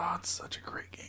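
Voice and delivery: very soft, whispery sigh of praise; hushed, wistful whisper; whispered lament. Real, not acted. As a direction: whisper it in mournful admiration. Lamenting the game's low ranking.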